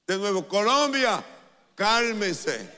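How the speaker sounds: voz de prédica aguda y fuerte; exhortación a gritos. Real, not acted. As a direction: lanzarlo con fuerza a toda la multitud. Predicador repite exhortación al público. (exhortación enérgica al público)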